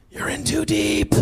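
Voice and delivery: high, slow mock-sage voice; amused high mock warning; mock wise voice. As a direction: drawl it like a knowing insider. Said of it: "I'm like".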